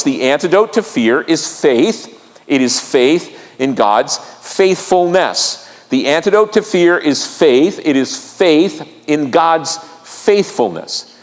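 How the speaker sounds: slow, spaced-out words with weighty pauses; deliberate key maxim. Real, not acted. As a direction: drive the maxim home word by word. Preacher delivers key maxim, repeats it.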